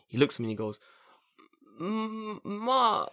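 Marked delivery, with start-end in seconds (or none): 1.8-3.0 high, soft reluctant hum; mock hesitant hum. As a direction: hum high as if wavering over the answer. Retold hesitant reaction to question.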